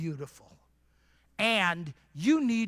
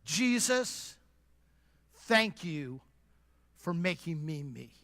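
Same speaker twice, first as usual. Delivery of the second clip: sincere prayer; 5 semitones lower, 5 dB quieter than usual. Shown as a demonstration. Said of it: "say this out loud".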